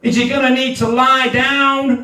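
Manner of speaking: a hint of a sleep-app instructor; meditation instructor. Instructor guiding a listener to lie down, lightly voiced meditation.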